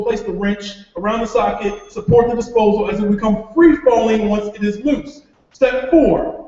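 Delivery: brisk instructional reading, step numbers announced; manual read-aloud. Acted. Father reading out disposal installation steps, instructional read-aloud. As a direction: announce each step, then recite the instructions.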